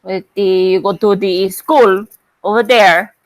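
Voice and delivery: demonstrating a put-on Filipino accent. Shown as a demonstration. Streamer showing Pokey what they can understand, Filipino accent. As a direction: show how the Filipino accent sounds. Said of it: "I can understand with the Filipino accent".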